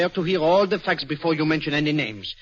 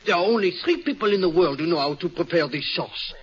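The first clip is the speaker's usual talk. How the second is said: laughing; 3 semitones higher than usual. Acted. Chef delighted, laughing while praising.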